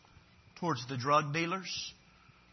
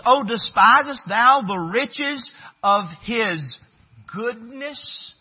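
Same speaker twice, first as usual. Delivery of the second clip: raised, emphatic pulpit reading; scripture reading; 6 semitones higher, 9 dB louder, slower than usual. Acted. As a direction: read the verse out high and deliberate. Reads scripture aloud to congregation.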